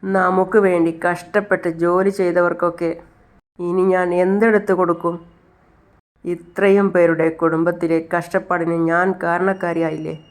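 slow, mildly tearful lament; a touch of weeping, drawn out slowly; understated tearful plea, slow; crying while speaking. Acted. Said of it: "Chandrika വീണ്ടും കരഞ്ഞുകൊണ്ട് പറയാണ്".

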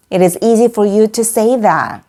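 slow repeat with "you" stressed after "for"; deliberate teaching read, "you" given its stress; stressed model sentence. Shown as a demonstration. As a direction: say it slowly for learners, keeping the stress on "you". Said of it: "강세까지 살려서 말해볼까요".

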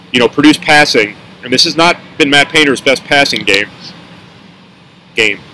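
talking around a mint in the mouth. Real, not acted. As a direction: speak with a mint tucked in the mouth. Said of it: "Sorry, I have a mint in my mouth".

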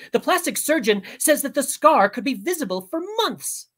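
a touch high, fussy mother; a hint of an indignant mom; upset mother. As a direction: complain in a lightly voiced mother's tone.

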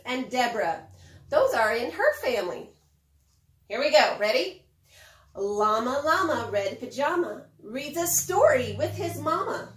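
lightly sing-song storybook read; reading to children. Acted. Teacher reads a picture book aloud to children, lightly sing-song. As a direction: read it out to the little ones.

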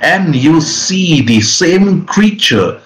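slow, stretched-out suspense narration; dramatic scene setting. A narrator's reading. Game master reveals the creature before the player, dramatic narration. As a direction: draw out the last words for a reveal.

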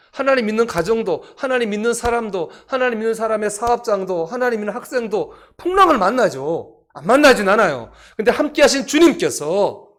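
loud, high, building list; full-force preaching. Real, not acted. Preacher telling congregation every believer meets storms, full-force preaching. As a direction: drive each item home to the congregation.

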